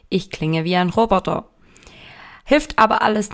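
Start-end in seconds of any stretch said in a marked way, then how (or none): 0.1-1.5 hoarse, worn robot voice; strained voice after a festival. Real, not acted. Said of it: "in der ich wie ein Roboter klinge".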